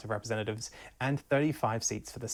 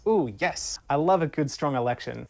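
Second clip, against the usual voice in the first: playfully gushing, louder on good; mock gushing; 5 dB louder than usual. Scene: host hamming up love of elections, mock excited. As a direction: relish the word strong like a treat.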